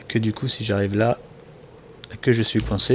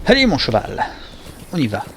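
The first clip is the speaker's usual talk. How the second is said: encourager le cheval; 5 semitones higher than usual. Pretend. Encourage son cheval dans le jeu.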